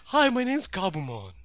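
soft breathy greeting, lightly done; a gentle breathy hello; Gabumon voice. Retold or imitated. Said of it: "he sounds like".

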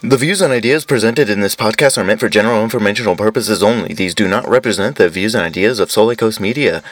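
brisk, even legal disclaimer; disclaimer read. Real, not acted. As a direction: read out the fine print without pausing.

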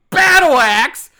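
loud, exasperated disbelief; incredulous rant. Real, not acted. Co-host baffled by the movie's battle axe, incredulous rant. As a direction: hammer out the absurdity at full volume.

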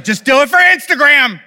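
half-laughing self-mocking urging; laughing mock plea. Dad urging kids for the photo, laughing mock plea.

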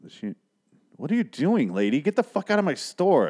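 manager yelling at the fake mannequin, high angry yell. Manager throwing mannequin woman out.

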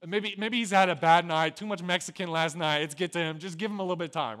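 lightly laughing tease; joking mockery. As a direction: taunt them with mock sympathy. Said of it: "That's how Elijah's responding".

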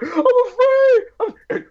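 high, halting Miyagi voice; lightly voiced wise old teacher; Mr. Miyagi impression. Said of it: "He's like".

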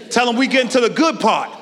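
call to the church. Acted. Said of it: "repeated call".

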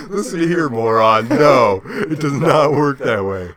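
loud, shouting at a passenger; rude agent yelling. Pretend. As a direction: bark at them like a fed-up agent. Acting rude airport host.

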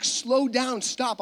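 retold plea to slow down; lightly voiced mom. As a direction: mom calling after her child, lightly acted. Mom calls after walking child.

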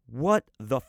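slow, drawn-out disbelieving outrage; retold anger, each word stretched out; livid. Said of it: "livid, probably a lot more angry".

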